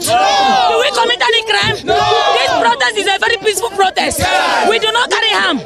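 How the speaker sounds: protester shouting pleas at the president over the crowd; shouted plea. Real, not acted. Protester pleading loudly.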